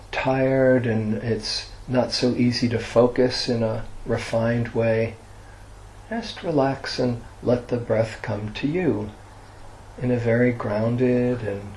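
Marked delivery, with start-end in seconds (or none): 6.1-11.7 softening guided meditation close, trailing into quiet. Real, not acted. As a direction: ease listeners into rest, phrase by phrase.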